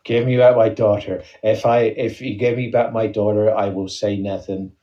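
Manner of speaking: mock action-hero ultimatum in a put-on accent; badly placed accent, deadpan demand; Liam Neeson. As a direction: threaten in a wobbly attempt at an accent. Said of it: "That's Liam Neeson in that film".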